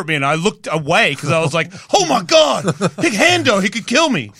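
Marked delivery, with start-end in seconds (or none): 1.9-4.3 mock scared. Scared of the tough actor.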